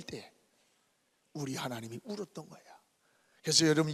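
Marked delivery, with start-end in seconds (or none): none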